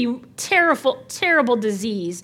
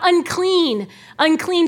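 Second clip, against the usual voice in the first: mock yell; 5 semitones higher, slower than usual. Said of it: "they'd have to yell out".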